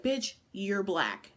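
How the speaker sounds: building from a drawl to a loud jeer; mock drunk taunt. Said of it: "She was like".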